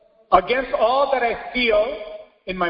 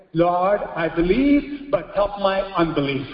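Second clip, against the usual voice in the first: pleading cry; slower than usual. Retold or imitated. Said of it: "the father cried out".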